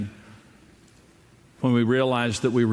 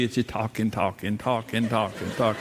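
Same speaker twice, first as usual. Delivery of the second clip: mock boredom; 4 semitones lower, 3 dB quieter than usual. Mocking talky movies.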